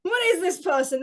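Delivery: loud, high, drawn-out British caricature; hammed-up British bewilderment; mock British accent. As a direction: demand it as an outraged cartoon Brit. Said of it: "'Cause he's apparently British now".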